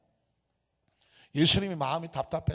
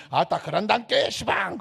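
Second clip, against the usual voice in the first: Jeolla dialect; 2 semitones higher than usual. Retold or imitated. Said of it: "막 사투리 막 쓰고".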